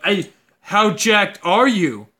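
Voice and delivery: a hint of a Southern gym bro sizing you up; Southern dude impression. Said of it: "he's like".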